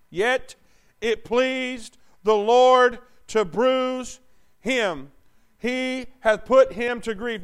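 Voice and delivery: measured, solemn Bible reading; scripture reading. Acted. Reads Isaiah aloud.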